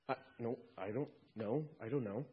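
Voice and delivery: a hint of a sheepish thief; confused thief. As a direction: shrug it off quietly, lost. Thief unsure at heaven's gate.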